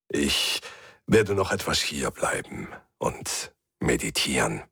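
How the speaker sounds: put-on low, calm old man; gentle. A narrator's reading. Old man explains he will stay to meditate, gentle. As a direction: speak low, peacefully settled. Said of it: "sagte Mabaru sanft".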